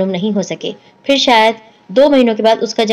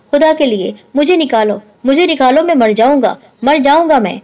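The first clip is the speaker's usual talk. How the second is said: panicked yelling; 4 semitones higher than usual. Acted. Man locked in a washroom yelling in panic to be let out. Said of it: "چیخ رہا تھا".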